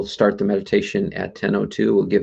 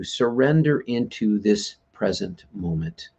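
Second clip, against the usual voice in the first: unhurried, measured meditation guiding; guided meditation. Acted. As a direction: lead them gently into relaxation, phrase by phrase.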